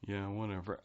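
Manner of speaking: bored deadpan shrug; dry deadpan Alfred. Retold or imitated. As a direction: toss it off with an eye roll. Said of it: "this kind of dry, laconic sense of humor".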